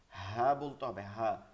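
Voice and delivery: হা said as the open Bengali h, not from the throat; low, open হা; Bengali-style ha. Shown as a demonstration. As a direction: say হা clean, keeping it out of the throat. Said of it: "Bangla যে হা আছে সেটা থেকে".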